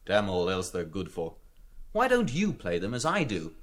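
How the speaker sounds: candid, down-to-earth confiding; plain-spoken, mildly dismissive aside; changed tone. A narrator's reading. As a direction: drop the act and level with him. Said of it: "In a suddenly changed tone".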